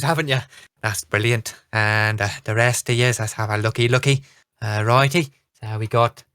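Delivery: flustered halfling captain in a light Irish brogue; bumbling, friendly captain with a touch of brogue. Acted. Captain Flagonfoot introduces himself to the party, in a light Irish brogue. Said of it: "a very thick brogue comes out".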